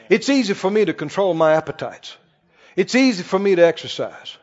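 low, soft affirmation; calm confession. Shown as a demonstration. Preacher models a soft self-affirmation for dieters. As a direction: say it quietly, with calm certainty. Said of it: "What if you said".

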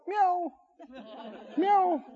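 high, soft pleading meow; a little cat begging at the door; stray cat meow. Pretend. Preacher voicing a stray cat at the door, high meow. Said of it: "he looks up at your door".

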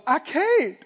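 high, rising panicky wail; mock the hysterical refusal; imitated panic building to a shriek; anguished whining. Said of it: "Have you ever heard the angst of".

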